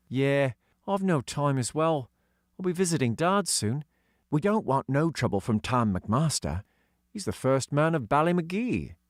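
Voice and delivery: put-on high, light voice for young Doggy; young boy voicing; boy character voice. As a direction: lift into a kid's voice. Dougie voice.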